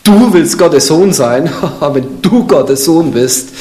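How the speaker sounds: slow, laughing devil sneer; mocking devil tone. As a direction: taunt him with a chuckle, slowly. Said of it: "So mit dieser Betonung".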